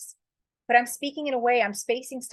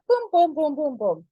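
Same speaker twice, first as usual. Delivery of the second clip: punchy boom boom; 6 semitones higher, 4 dB louder than usual. Retold or imitated. Listing the AI's outline punchily.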